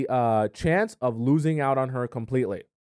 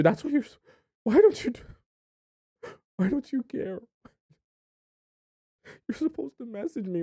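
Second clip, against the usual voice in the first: mock whiny guy, much higher and louder, pleading; whiny boyfriend; 8 semitones higher, 4 dB louder than usual. Boyfriend complaining that she should be upset, higher hammed-up whine. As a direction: play the needy boyfriend begging for attention, hammed up.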